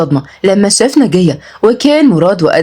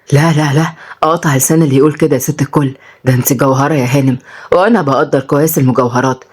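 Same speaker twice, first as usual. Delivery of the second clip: low-voiced old suitor; lightly voiced old charmer pleading his case; wooing grandfather; 5 semitones lower than usual. (جدّ بيتقدّم للجواز)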